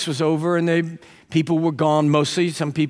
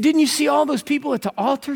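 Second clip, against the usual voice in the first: surprised question; 9 semitones higher than usual. Retold or imitated. Preacher questions the woman.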